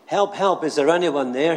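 high, loud call for help from a cliff; shout for help. Retold or imitated. Jack dangling from a cliff shouts for passerby, loud cry. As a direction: yell it up the cliff face, desperate. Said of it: "he shouted".

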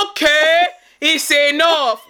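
slow, drawn-out "enough" as an imitated Nigerian parent; lightly voiced fed-up Nigerian parent; mock a parent cutting off the fuss. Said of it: "Why do Nigerians do that?".

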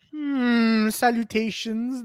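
demonstrated character greeting. Shown as a demonstration. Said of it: "And then, and then".

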